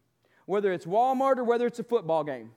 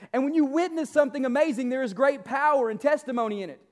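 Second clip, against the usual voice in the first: booming motivational speech; 2 semitones higher than usual. Acted. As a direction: preach it at full force to the congregation. Builds to booming preaching.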